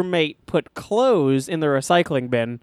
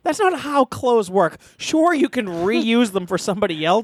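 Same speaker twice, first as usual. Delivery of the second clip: exasperated retold scolding, raised pitch; retold yelling; 3 semitones higher than usual. Retelling the argument with the roommate, exasperated. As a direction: lecture him crossly, not shouting. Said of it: "started yelling at Guido".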